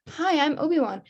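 Obi-Wan introducing himself. Retold or imitated. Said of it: "he's like".

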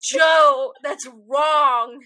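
loud, drawn-out telling-off; playful shouted reprimand; mock scolding. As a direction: call him out loudly. Mock scolding of absent coworker Joe.

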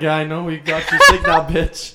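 mock reply through laughter; laughing. Acting Heath's reply laughing.

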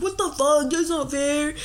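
high, outraged protest; villain furious at being passed, indignant; indignant outburst. Retold or imitated. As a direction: squawk it like a cheated villain. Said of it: "Snake's like".

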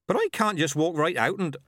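put-on cheerful, high old countrywoman; chirpy village midwife; old witch voice. Nanny Ogg protesting.

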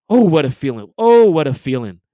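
loud, savoring triumph; gleeful exclamation. Real, not acted. Fan gloating over beating Duke, loud gleeful cry. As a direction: relish the win out loud. Celebrating the rivals' loss.

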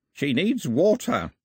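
put-on papery old man voice; slow croak, dry and thin. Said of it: "croaked the old man".

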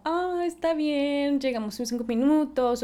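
laid-back Australian saying they'll be late; easygoing late friend. Retold or imitated. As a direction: brush off being late. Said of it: "son como".

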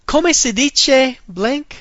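slow, high, rising Come si dice blank?; high questioning model. Shown as a demonstration. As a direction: ask it slowly as a puzzled student. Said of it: "How do you say blank?".

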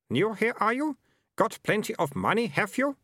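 a pushy market trader voice; gruff townsman. A narrator's reading. Townsman character voice.

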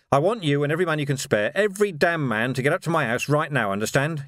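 rapid-fire commanding instructions; urgent order. Acted. Vimes sends every man to his house, urgently.

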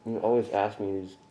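talking through a mouthful of food; words round a bite of burger; mouth full. Real, not acted. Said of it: "when my mouth is full".

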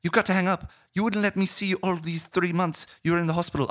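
put-on high-pitched protesting girlfriend voice; upset Chloe. Girlfriend on the phone to the man hanging up, high-pitched protest. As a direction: plead indignantly, pitched high throughout. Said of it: "And she goes".

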